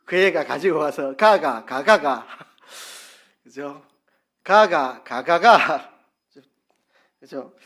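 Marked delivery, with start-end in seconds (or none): 1.2-2.3 louder Gyeongsang intonation "가가, 가가". Shown as a demonstration. Preacher demonstrating dialect, a loud Gyeongsang "가가". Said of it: "제가 해볼게요". 4.4-5.9 louder Gyeongsang intonation "가가, 가가". Shown as a demonstration. Preacher demonstrating dialect, a loud Gyeongsang "가가". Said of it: "제가 해볼게요".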